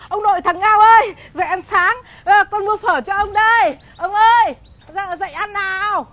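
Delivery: calling out. Acted. Daughter-in-law calls grandfather to eat, calling out. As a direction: call grandfather to breakfast.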